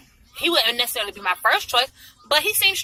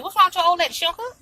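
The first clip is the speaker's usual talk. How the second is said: sarcastic; 6 semitones higher, faster than usual. Real, not acted. Mocking his wife question.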